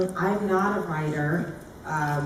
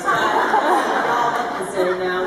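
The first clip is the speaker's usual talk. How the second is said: accidental Southern drawl, slow and laughing; Southern accent; 6 dB louder, slower than usual. Real, not acted. Star to audience under bright lights, slipping into Southern accent. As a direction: slip into a slow Southern twang, amused. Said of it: "I just became Southern".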